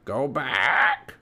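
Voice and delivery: squawky parrot voice; Polly the parrot. A narrator's reading. Parrot warning the pirates to leave, squawking. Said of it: "said Polly".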